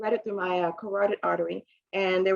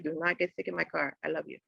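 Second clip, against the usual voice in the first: mild warning; 3 semitones lower, 6 dB quieter than usual. Retold or imitated. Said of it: "She's like".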